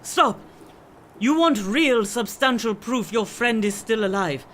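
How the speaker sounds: commanding shout. Acted. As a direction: stop him dead with your voice. Swami commands him to stop.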